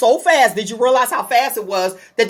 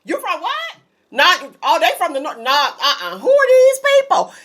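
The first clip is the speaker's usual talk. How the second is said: mock questioning locals; 4 semitones higher than usual. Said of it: "retold exchange".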